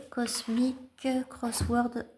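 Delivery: slow, careful English title in a French accent; French speaker attempting English words. Real, not acted. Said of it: "J'ai un super accent anglais".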